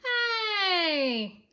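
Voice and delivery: coach shout. A narrator's reading. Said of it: "shouted the coach".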